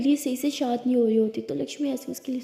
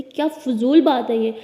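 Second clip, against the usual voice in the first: sharp, louder and slow, offended; angry retort; 6 dB louder, slower than usual. Acted. Lakshmi snaps at Lily over a joke about mom, angry. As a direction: snap back, hurt by the joke. Friends arguing, insult to mother.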